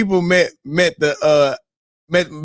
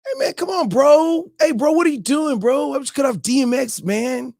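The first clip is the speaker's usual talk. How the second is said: mock drunk fans; 7 semitones higher than usual. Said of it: "they was like".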